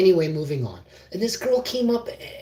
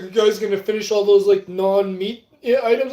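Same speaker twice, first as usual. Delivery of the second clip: raised, louder hopeful question; eager asking; 4 semitones higher, 5 dB louder than usual. Retold or imitated. Asking companions for their leftovers, eagerly. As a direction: pitch it up as you angle for leftovers.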